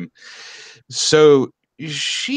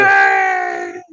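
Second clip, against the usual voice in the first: loud, very high frog-puppet cheer; Kermit the Frog; 5 dB louder than usual. Acted. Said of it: "I did Kermit".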